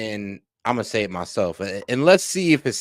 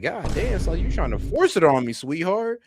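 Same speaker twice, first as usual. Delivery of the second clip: mock indignant; 6 semitones higher than usual. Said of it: "I was like".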